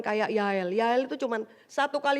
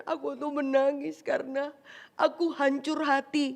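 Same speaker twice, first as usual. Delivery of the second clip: mock man confessing; 2 semitones higher than usual. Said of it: "laki-laki ndak akan katakan".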